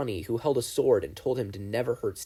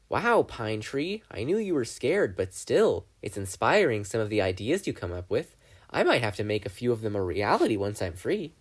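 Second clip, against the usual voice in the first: Bill the demon. Acted. Narrator voices demon Bill.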